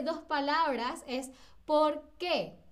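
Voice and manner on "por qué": "qué" as its own weighted word after "por"; stress on qué. Shown as a demonstration. Teacher shows students the two-word question, weighted "qué". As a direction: split "por qué", leaning on the "qué". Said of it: "tiene como este peso".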